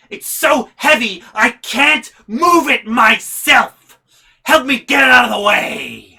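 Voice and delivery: high, loud mock mom yell; imitating mom. Mom orders son to help move the box. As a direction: ham up the bossy mom.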